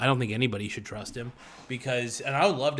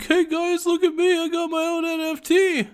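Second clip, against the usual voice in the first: much higher, sing-song mock celebrity voice; celebrity promoting NFTs; 4 dB louder than usual. Mocking celebrities pushing NFTs to fans, high mock voice. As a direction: squeal it like a fake influencer pitch.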